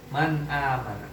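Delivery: "Man amana" with the n of Man fully sounded; clear nun. Shown as a demonstration. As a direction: say "Man amana" keeping the n separate from the next vowel. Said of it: "Dibaca jelas nunnya".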